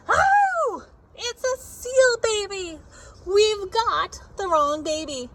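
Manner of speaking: high loud startled shout; yelled. Acted. Father slapped by flipper, yelling in alarm. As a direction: cry out in alarm at the seal. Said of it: "He yelled".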